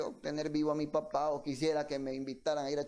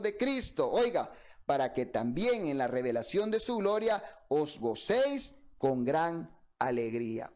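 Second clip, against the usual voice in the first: scripture reading. Acted. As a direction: proclaim the verse to the congregation. Reads scripture aloud.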